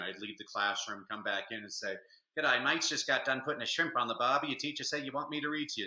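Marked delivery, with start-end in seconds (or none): 2.4-5.9 Australian Pete. Retold or imitated. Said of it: "get Australian Pete to come read to you".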